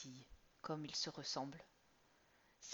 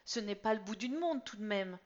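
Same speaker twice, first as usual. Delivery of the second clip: mild annoyance; 4 semitones higher, 6 dB louder than usual. Acted. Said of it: "s'énerve Laure".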